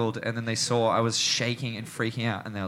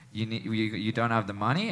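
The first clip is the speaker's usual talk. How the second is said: retold quiet menace; 3 semitones lower, 4 dB quieter than usual. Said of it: "comes up closer to me".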